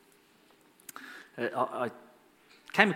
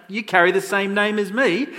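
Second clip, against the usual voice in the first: loud, high-pitched indignation; indignant rebuke; 8 semitones higher, 8 dB louder than usual. Acted. Alexander the Great rebukes his namesake soldier, indignant.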